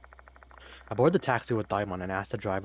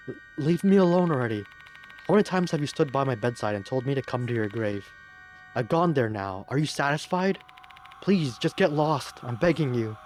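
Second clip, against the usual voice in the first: high, trembling plea to be left alone; pleading girl voice; 4 semitones higher, 5 dB louder than usual. Acted. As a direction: beg the ghost, voice shaking.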